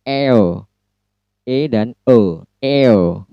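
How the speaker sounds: "Air" said as the eə glide; diphthong demo. Shown as a demonstration. Teacher modelling the air sound for students. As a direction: sound out "Air" from e toward schwa. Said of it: "Yang pertama air".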